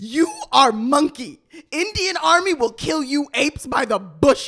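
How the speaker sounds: put-on loud Indian accent. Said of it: "you must do this in an Indian accent".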